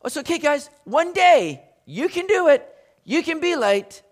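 high, coaxing pat on the head; sing-song reassurance to the lazy; mock soothing guys, one day; mock consolation. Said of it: "some of us would like this to rather read".

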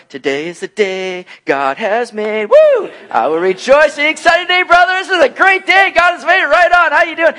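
loud, high, gushing cheer; mock hype-man enthusiasm; over-the-top cheerfulness. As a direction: bounce in way too happy to a grieving friend. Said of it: "all upbeat".

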